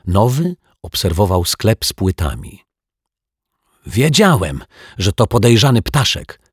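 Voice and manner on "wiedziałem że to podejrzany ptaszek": put-on high, eager boy's exclamation; thrilled, high-voiced outburst; excited cry. A narrator's reading. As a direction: cry it out triumphantly, pitched up. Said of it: "krzyknął podekscytowany Dominik".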